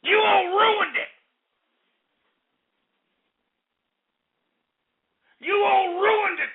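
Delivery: tearful yell, pitched high; real anguished crying shout. Real, not acted. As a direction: shout it while breaking into sobs. Breaking down mid-rant.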